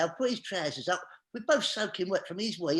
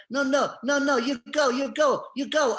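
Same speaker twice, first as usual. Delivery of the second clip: raised, higher-pitched mock protest; insistent retold objection, louder and higher; protesting cleaner; 5 semitones higher, 6 dB louder than usual. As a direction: imitate a cleaner shooing people out loudly. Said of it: "then the cleaner's in the, in the living room, in the bedroom, going".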